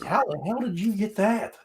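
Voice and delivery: high, incredulous question; retold shock. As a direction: ask it in disbelief. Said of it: "It's like".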